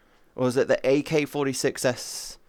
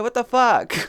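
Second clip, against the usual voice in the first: mock outraged shout; 9 semitones higher, 5 dB louder than usual. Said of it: "And they'd be like".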